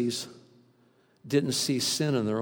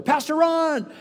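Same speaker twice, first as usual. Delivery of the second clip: imitating a congregant; 13 semitones higher, 7 dB louder, slower than usual. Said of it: "he said".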